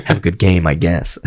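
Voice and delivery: mock pissy send-off. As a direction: sulk through a half-hearted good wish. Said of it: "You're, like, pissy at him".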